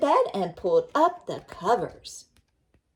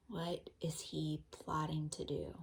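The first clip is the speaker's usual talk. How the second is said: hushed secret whisper, lower; conspiratorial whisper; 3 semitones lower, 13 dB quieter than usual. Acted. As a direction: whisper as if sharing a scary secret.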